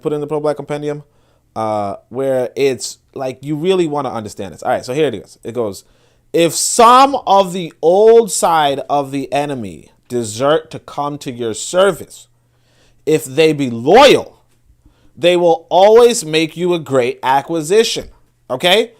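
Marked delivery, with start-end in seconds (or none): 6.3-18.1 slow, weighty reading of a maxim; emphatic reading aloud. Real, not acted. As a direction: read it out slowly, leaning on key words. Reads aloud rule of warfare.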